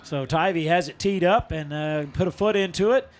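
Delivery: football kickoff call, lifting as the ball goes up; live play-by-play. Real, not acted. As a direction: call the kick live, then settle as play ends.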